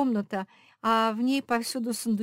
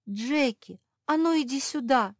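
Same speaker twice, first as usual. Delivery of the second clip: higher, louder bossy call; ordering; 7 semitones higher, 7 dB louder than usual. A narrator's reading. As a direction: summon her like an order. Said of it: "словно приказ отдала".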